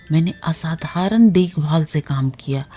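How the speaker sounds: plain reading voice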